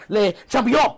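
mock grand title. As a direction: announce the title with hammed-up grandeur.

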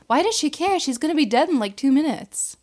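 baffled, rising rant; high exasperated. Real, not acted. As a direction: voice up high in disbelief.

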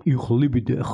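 "Ich liebe dich" with throaty, scraped ch sounds; phlegmy German pronunciation. Shown as a demonstration. Joking about German love words, "Ich liebe dich" with throat-clearing ch. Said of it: "σου έχει κολλήσει κάτι στο λαιμό".

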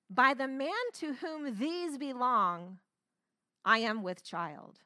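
slow, dramatic scripture reading; theatrical, measured accusation; dramatic declaration. Acted. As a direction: draw it out like a movie reveal. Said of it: "So dramatic".

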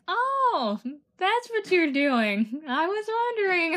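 high-pitched quote. Retold or imitated. Quoting a classmate, high voice.

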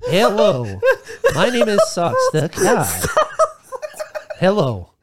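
sultry cat voice. Acted. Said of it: "you're making Socks the Cat way, way more hot".

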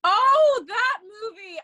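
high, loud burst of excitement on oh; suddenly lights up at the title; excited recognition. Real, not acted. Cohost hears the next movie named and bursts out excitedly.

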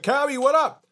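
high, loud greeting to an idol; excited fan shout. Retold or imitated. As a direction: call out like a starstruck fan. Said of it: "and I freak out".

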